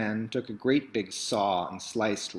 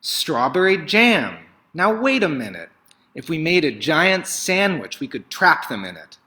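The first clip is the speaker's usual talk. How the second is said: higher and louder, bursting with the idea; excited baker; 5 semitones higher, 5 dB louder than usual. Acted. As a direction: sell the plan with glee. Bap the baker's big idea.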